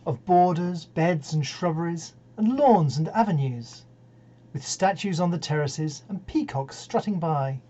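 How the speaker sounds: measured poem reading with weighted pauses; poetry recitation. Acted. Poet's admirer reading Kipling's garden poem to listeners, measured recitation. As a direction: recite the verse line by line, deliberately.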